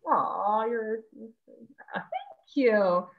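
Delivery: getting emotional. Real, not acted. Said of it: "I'm getting emotional".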